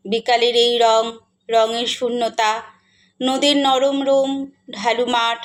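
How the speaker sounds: measured poetic reading with long pauses between lines; lyrical, deliberate verse delivery; poem recitation. Acted.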